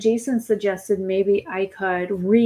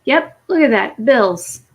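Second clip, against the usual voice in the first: exasperated; 3 semitones higher, 6 dB louder, slower than usual. Real, not acted. Exasperated at more bills.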